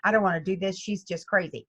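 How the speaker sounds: mock whining reluctance; a hint of a sulky student; grumbling student. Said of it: "the first time it's like".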